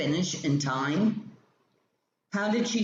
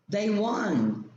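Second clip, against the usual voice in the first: exclamatory; 6 semitones higher than usual. Shown as a demonstration. Teacher showing students "They won." as an exclamation.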